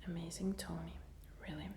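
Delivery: ASMR whisper. Real, not acted. Whispers her whole ASMR reaction.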